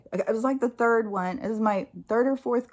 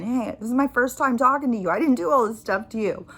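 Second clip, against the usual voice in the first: higher, louder imitated protest; protesting agent; 4 semitones higher, 5 dB louder than usual. Phone agent defending himself to angry caller, imitated protest. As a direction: plead innocence, pitched up and insistent.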